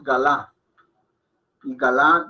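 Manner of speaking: "galá" in two clear syllables, stressed at the end; full short A. Shown as a demonstration. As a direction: voice the first A in "galá". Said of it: "si la dejamos con la A".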